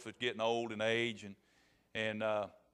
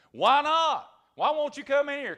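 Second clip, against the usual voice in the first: loud, high indignant demand; storyteller's wolf losing patience; exasperated wolf; 12 semitones higher, 9 dB louder than usual. Acted. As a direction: burst out in frustration as the wolf.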